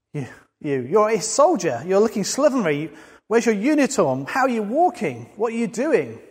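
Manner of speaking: sergeant major shouting. Retold or imitated. Sergeant major yelling at a slovenly ex-soldier, mock yell. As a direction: bark it like an outraged sergeant. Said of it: "And he shouts at you".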